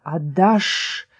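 rushing, sibilant demand from a flame; demanding voice of the fire; roaring flame's voice. A narrator's reading. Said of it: "шумело пламя".

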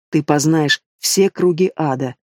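usual speaking voice

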